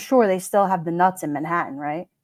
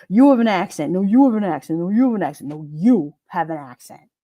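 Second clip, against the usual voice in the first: repeated jabs, each YOU stressed; mock back-and-forth, "You" punched every time; mock bickering; 2 semitones lower than usual. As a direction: imitate people bickering, leaning hard on "You". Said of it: "and they're like".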